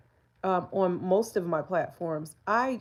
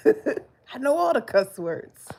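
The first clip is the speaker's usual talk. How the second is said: slow, loud, laughing brag; proud laughing brag; laughing boast; 5 semitones higher, 5 dB louder, slower than usual. Real, not acted.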